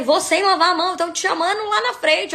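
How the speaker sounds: high, loud, hurried retelling; flustered rush. Retold or imitated. Speaker called to the stage from the bathroom, flustered rush. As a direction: blurt it in a comic hurry.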